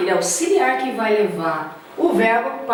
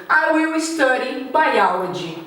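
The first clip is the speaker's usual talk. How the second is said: slow model sentence; slower than usual. Shown as a demonstration. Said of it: "Mesma coisa".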